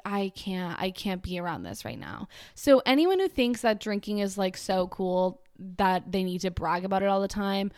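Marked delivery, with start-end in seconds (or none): 0.0-2.3 softer, worn-out murmur; defeated. Retold or imitated. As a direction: quietly give up on them. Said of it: "I'm like".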